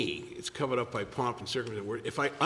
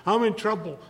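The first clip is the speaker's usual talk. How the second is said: higher and louder, frantic friend; mock panic; 8 semitones higher, 4 dB louder than usual. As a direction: plead like a man in a crisis. Panicked friend voiced high.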